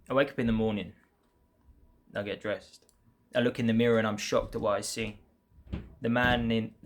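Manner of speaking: measured poem reading, line by line; earnest spoken poem with pauses between lines; poem recitation. Acted. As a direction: recite your own verse in evenly phrased lines. Begins reading second poem.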